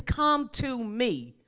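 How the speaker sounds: slow, tender invitation; Jesus inviting the weary, slowly. Acted. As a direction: draw them in slowly. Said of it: "Jesus says".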